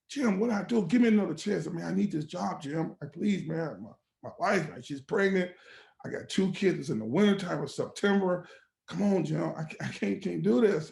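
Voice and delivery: a touch of desperate appeal; retold pleading. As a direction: plead with the boss, reenacted. Retold plea for his job.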